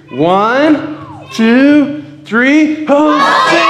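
high, loud count into a shouted Hosanna. Real, not acted. Pastor leading the crowd in a loud shout. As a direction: drive the crowd with a yell. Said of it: "everybody can yell".

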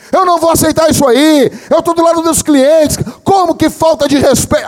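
loud, high protest; mock righteous yelling; retold indignant shouting. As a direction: make a scene for everyone to hear. Retold colleague siding with customers, shouting.

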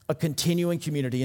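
quick, falling restatement; brisk restatement. Shown as a demonstration. Preacher restating his point to the church, quickly and firmly. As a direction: rattle it off with a firm drop on continuing.

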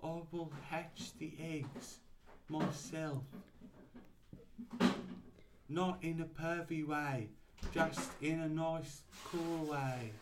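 slow, drawn-out character voice; Bindi. Acted. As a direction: reassure them in a slow put-on voice. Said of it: "And then Bindi said".

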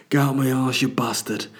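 put-on lightly strained English-accented command; hammed-up northern warrior growing cross; Jon Snow. Toilet stranger as fantasy hero, mock strained command. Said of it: "it sounds a bit like Jon Snow".

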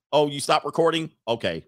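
dropping into low, deflated mock spouse; back to boring. Spouse after recording stops, sinking into boredom. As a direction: let the act fall away, pitch sinking. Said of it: "they went right back to boring marital life".

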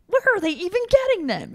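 high, loud amazed question; excited disbelief. Real, not acted. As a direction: ask it like you can't believe it. Amazed question about the masks.

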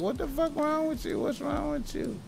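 high, strained voice of an alarmed parent. Retold or imitated. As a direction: squeak out the question high and thin. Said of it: "they was like".

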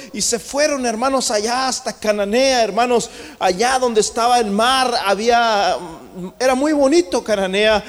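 driving preacher's proclamation; impassioned preaching. Acted. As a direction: preach it out to the congregation. Preaches at full force.

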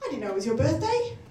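mock birthday cheer. Friend fooling a mugger, mock celebratory shout. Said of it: "and he said".

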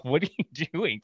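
puzzled, rising question from the chair; confused customer. Retold or imitated. Customer spun in barber chair, mock baffled. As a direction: act baffled as he's spun. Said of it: "The guy's all".

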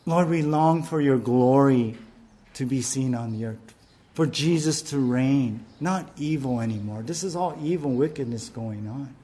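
hushed appeal to the Lord; earnest prayer. Acted. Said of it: "so it's more like".

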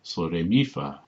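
MI hit suddenly in sol, re, mi, fa; sudden emphasis on mi, fa light after it; sharp accent on penultimate syllable. Shown as a demonstration. Showing song-like, sharp stress on MI. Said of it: "then it's a sharp accent".

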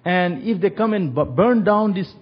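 a touch of tearful pleading; crying pastor. Retold or imitated. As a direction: beg through tears for the family. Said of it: "He was crying me".

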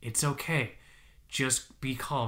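soothing. Retold or imitated. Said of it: "Becky's just like".

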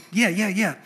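eager little sidekick dog voice; yappy chihuahua sidekick. Retold or imitated. Pastor voicing Tobiah as the cartoon bulldog's chihuahua, lightly yappy and eager. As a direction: egg the boss on like a cartoon chihuahua. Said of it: "that little, you know, dog".

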